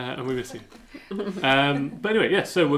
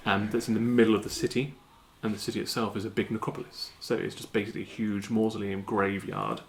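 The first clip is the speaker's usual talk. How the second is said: game master scene setting; scene narration. Acted. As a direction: paint the scene for the players. Game master describes the city.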